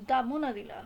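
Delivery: "the" said as "द"; "the" before consonant. Shown as a demonstration. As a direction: say "the Mona Lisa" with a short "द". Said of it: "For example". ("the" को "द" बोलना)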